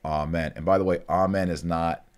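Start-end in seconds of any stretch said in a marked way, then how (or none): 0.0-0.5 slow, spaced recitation. Shown as a demonstration. Teacher recites slowly for students to repeat. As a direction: say each word slowly so they can follow. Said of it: "I'll say it again very slow".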